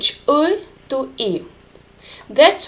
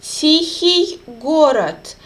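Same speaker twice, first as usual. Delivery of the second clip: slow teacher demo; 2 semitones higher than usual. Shown as a demonstration. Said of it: "stressed ending oi".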